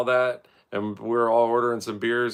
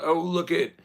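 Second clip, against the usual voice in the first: mock awe; 9 semitones higher, 4 dB louder than usual. Mock gasp at supermodels.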